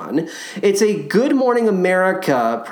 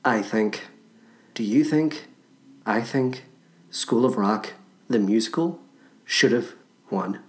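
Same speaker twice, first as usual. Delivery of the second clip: low, soft dramatic pondering; hushed musing; 6 semitones lower, 5 dB quieter than usual. Pretend. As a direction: mull it over in a hush. Mock dramatic musing, dropping voice.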